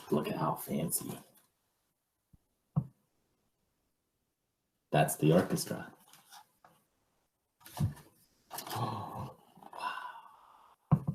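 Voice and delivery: gasping, whispered wonder; awed whisper. Real, not acted. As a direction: whisper in awe at the picture. Hushed asides, gasping at pictures.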